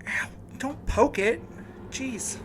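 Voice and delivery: hurt and irritated, voice jumps up; in pain. Acted. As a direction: wince as the sore spot gets poked. Sore wound being poked.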